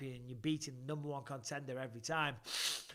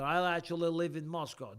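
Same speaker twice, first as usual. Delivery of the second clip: put-on Russian accent; 2 semitones higher, 4 dB louder than usual. Host re-reading a Moscow viewer's message, Russian accent. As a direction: say it like a mock Russian. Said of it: "I can do a Russian accent".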